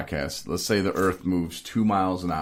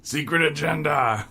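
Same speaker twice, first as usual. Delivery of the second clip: high, hammed-up outburst; mock exclamation; 8 semitones higher, 3 dB louder than usual. Host teasing dad for changing his voice, mock exclamation. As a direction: blurt it high, mimicking dad. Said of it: "And now he's like".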